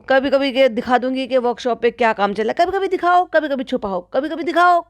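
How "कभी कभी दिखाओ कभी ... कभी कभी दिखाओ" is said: high teasing sing-song mimicry; mocking sing-song. Vlogger mimicking the cooking madam, high mock sing-song. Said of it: "यही कर रही थी कूद कूद के".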